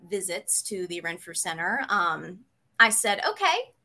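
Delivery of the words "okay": higher-pitched, fired-up self-promise; rally yourself with bold resolve; determined resolve. Retold or imitated. Retelling her vow to fix things herself, pitched up and resolved.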